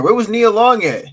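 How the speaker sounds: loud question. Real, not acted. Asks loudly where the actress was.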